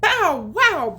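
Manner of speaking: high, loud bow wow; loud barking cat; barked. Acted. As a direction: bark it like a dog. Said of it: "barked the cat".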